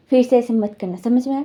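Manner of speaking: lightly voiced stern boss telling him off; mild retold scolding.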